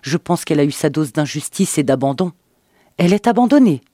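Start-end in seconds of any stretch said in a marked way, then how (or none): 3.0-3.8 sarcastic. A narrator's reading. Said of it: "répliqua-t-elle d'un ton sarcastique".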